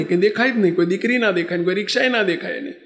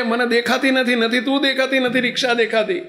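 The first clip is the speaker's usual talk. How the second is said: pleading shout; 6 semitones higher than usual. Acted. Blinded rickshaw driver begging the girl, a pleading shout. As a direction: call out, desperate and sorry.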